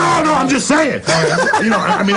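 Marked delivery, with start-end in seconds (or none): 0.0-1.0 a heated laughing denial; laughing shout. Real, not acted.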